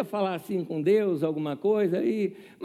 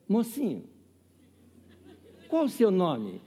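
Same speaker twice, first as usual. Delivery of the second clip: put-on sweet old lady; 2 semitones higher, slower than usual. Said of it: "olha que ela falou "mocinho".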